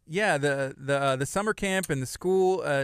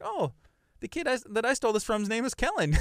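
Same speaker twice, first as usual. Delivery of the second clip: high, smug thief reading the tag; sneaky thief voice; 8 semitones higher than usual. Retold or imitated. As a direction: play the thief who stole it. Voicing a thief finding the name.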